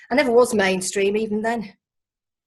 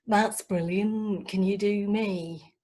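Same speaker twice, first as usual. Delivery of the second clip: slow, gushing put-on voice; enthusiastic girlfriend; 4 dB quieter, much slower than usual. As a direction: gush over the impressions. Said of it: "particularly enthusiastic".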